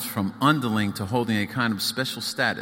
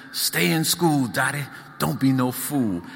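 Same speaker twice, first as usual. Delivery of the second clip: Southern accent, higher hollered imitation of a famous singer; girl imitating the star for her siblings, Southern holler; 3 semitones higher than usual. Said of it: "holler in a southern accent".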